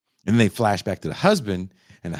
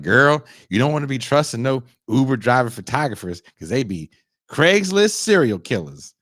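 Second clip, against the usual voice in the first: a hint of a sassy girlfriend, a bit louder; sassy friend warning; 4 semitones higher, 5 dB louder than usual. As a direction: warn her like a know-it-all friend.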